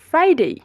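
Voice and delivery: "ফ্রাইডে" high then falling, loud, glided "dey"; model pronunciation. Shown as a demonstration. Teacher drilling learners, emphatic correct pronunciation. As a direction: teeth on lip for the f of "ফ্রাইডে". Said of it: "আমাদের উপরের দাঁত".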